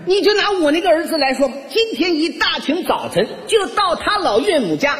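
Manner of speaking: put-on high-pitched, gushing old mother-in-law; praising mother-in-law. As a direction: brag about your son-in-law to all the neighbours. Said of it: "一边夸我". (岳母尖声夸女婿)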